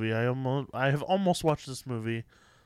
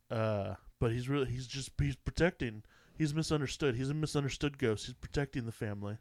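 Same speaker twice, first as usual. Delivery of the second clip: pretentious director voice. Acted. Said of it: "your pretentious director voice".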